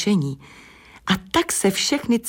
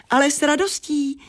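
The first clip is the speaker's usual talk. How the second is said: much higher, cheery ladybird voice; high, merry little reply; cheerful little laugh; 9 semitones higher than usual. A narrator's reading. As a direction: agree gladly, with a smile in it. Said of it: "zasmálo se slunéčko sedmitečné".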